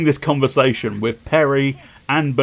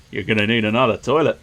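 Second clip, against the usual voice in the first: lightly put-on Australian accent; a quick, rough Australian film-quote parody; faster than usual. Player parodies a Jaws line about toilets, light Australian accent. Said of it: "why he's gone Australian".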